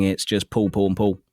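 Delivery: casual southern English, all three words alike; relaxed southern English vowels; natural southern English accent. Shown as a demonstration. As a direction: say Paul, Paul, Paul identically in southern English. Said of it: "for when I'm just speaking".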